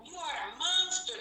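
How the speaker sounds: mock angry yell. Daughters confronting their cheating father, angry shout. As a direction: throw it at him like the girls did. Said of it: "They called him".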